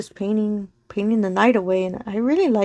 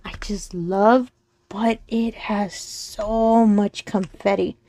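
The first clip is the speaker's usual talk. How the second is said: whisper; slower than usual. Real, not acted. Whispering to viewers about the confetti, slow whisper. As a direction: let it out as an awed whisper.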